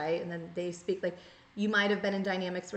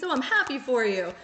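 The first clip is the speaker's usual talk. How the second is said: fake sweet; 3 semitones higher, 6 dB louder than usual. Fake nice to someone's face.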